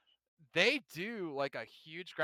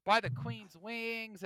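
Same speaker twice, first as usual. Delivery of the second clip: mock British; 5 semitones higher, much slower than usual.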